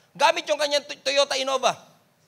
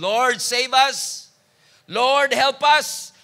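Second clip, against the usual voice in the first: very slow, louder drawn-out plea; crying out to the Lord; 6 dB louder, much slower than usual. Retold or imitated. Preacher voicing believers pleading with God, slow loud cry. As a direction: stretch out each word of the prayer. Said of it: "we are crying out the same thing".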